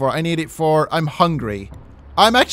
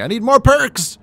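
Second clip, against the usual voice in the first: louder, higher exasperated cry; frustrated; 8 semitones higher, 5 dB louder than usual. Real, not acted. Player frustrated finding nothing, exasperated. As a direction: vent at the game.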